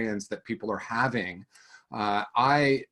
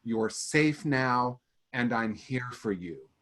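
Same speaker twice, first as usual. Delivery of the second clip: put-on soothing inner-child voice; slower than usual. Shown as a demonstration. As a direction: comfort a scared child inside you, slowly. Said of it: "inner child process that starts with".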